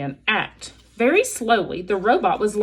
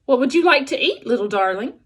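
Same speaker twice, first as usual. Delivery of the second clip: bright, friendly robot; robot mother coaxing the hatchling gently; friendliest voice; 4 semitones higher, faster than usual. Acted. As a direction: coax the little one sweetly. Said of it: "using her friendliest voice".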